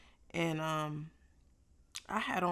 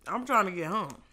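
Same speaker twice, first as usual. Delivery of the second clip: annoyed retelling; 5 dB louder than usual. Retold or imitated. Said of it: "I was getting mad".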